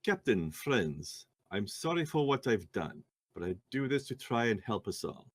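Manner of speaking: a hint of a pleading woman; in character note reading. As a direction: read it as the note's writer. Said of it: "I guess I'll do it in character".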